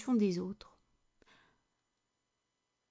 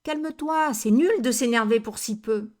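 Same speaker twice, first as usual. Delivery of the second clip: judgmental scolding; 5 dB louder than usual. Retold or imitated. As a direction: tell them off for overreacting, loudly. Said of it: "Vous jugez".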